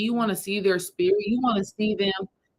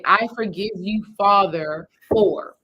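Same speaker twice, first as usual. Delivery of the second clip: earnest forgiveness; 4 dB louder, slower than usual. Shown as a demonstration. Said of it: "So I want you to say".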